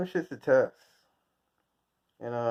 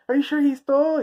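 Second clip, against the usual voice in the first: much higher, mock-doubtful question; mock skeptic; 11 semitones higher, 3 dB louder than usual. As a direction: ape a fussy court official. Mocking a judge's question.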